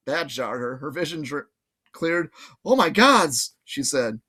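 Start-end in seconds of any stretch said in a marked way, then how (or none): 2.6-3.5 alarmed realization. Acted. Annabeth realizing.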